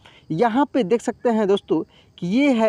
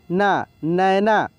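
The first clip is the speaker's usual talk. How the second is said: slow syllable reading; 3 semitones lower, much slower than usual. Shown as a demonstration. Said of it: "न में आय की मात्रा नै".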